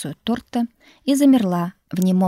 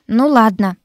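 reluctant drawl; 2 semitones higher, 7 dB louder than usual. A narrator's reading. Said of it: "недовольно протянула Дарина".

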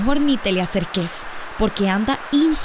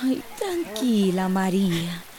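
soft and slow, easing her down; calm her gently; soothing; 4 semitones lower, 5 dB quieter, slower than usual. Acted. To her upset friend María, soft and soothing.

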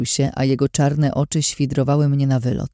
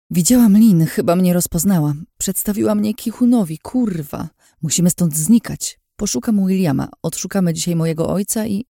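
panicked; 4 semitones higher than usual. Acted. Panicked report to Vicky.

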